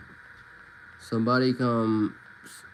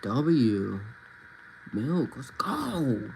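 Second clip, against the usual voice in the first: hyped. Real, not acted. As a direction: celebrate the win. Streamer reacting to game.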